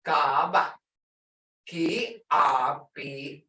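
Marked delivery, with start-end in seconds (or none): 0.0-0.7 "Gaba" with the first "ah" held; long sound. Shown as a demonstration. Teacher confirming what she hears, long vowel. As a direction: lengthen the first syllable of "Gaba". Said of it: "long sound".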